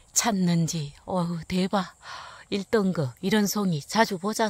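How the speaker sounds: loud delighted exclaiming; can't believe your luck; shrieking jackpot winner. Real, not acted. Celebrating first-grade mushroom.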